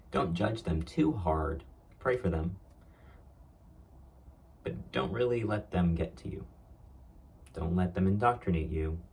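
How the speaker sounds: lightly mimicked dad advising his kid; a hint of a lecturing parent; father's warning. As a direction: caution them as a retold father would. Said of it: "he was giving me this warning".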